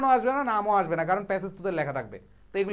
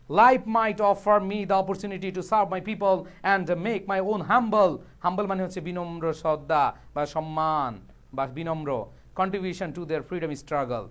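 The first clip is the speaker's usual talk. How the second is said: slow dictation reading; 3 semitones lower, slower than usual. Shown as a demonstration. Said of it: "teacher reads quote slowly".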